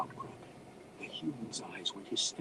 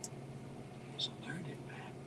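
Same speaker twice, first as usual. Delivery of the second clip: slow, very soft whisper; hushed, drawn-out whisper; 6 semitones higher, 13 dB quieter, slower than usual. A narrator's reading. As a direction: whisper confidentially to a companion. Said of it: "Drizzt whispered to the deep gnome".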